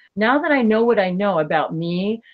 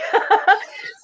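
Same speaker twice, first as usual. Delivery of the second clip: quick airy laugh, much higher; high breathy laugh; 5 dB louder than usual. Real, not acted. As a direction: laugh at the memory. Laugh after imitating Alex.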